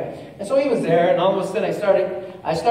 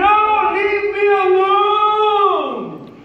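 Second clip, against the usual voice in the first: higher mock protest, lightly voiced; sleepy believer refusing; 11 semitones higher, 4 dB louder, much slower than usual. Preacher mimicking a lazy believer, mild mock whine. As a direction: play the one who won't wake up. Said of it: "But you're saying".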